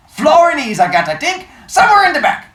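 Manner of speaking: put-on high, loud New York immigrant shopkeeper accent; thick old-world accent. Old bookseller on the phone to a caller, thick New York accent. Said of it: "His accent was thick".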